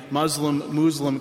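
"Muslim-Muslim" said MUZ-lum, MOOZ-lum; both pronunciations. Shown as a demonstration. Pastor being fair to both sides, both pronunciations in turn. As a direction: say "Muslim-Muslim" first with short u, then long oo. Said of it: "I'll use them interchangeably".

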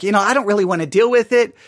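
mock indifference. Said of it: "They're just like".

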